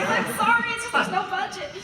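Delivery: high-pitched, squirming mock apology; sheepish apology. Actor retelling her apology to her colleague, sheepishly high. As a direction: act out an embarrassed excuse.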